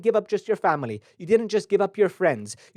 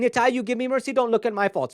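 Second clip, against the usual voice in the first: higher, pleading voice asking Nitai for mercy; humble pleading; 5 semitones higher than usual. Retold or imitated. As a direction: beg sweetly for mercy. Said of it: "Now we're saying".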